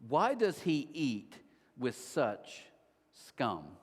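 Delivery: slow, contemptuous, falling to a low "scum"; scornful Pharisees sneering at sinners; harsh. Retold or imitated. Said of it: "think how harsh this is".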